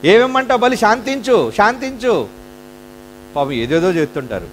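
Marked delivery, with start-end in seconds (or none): 0.0-2.3 mock begging. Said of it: "అమాయకులు కదండి".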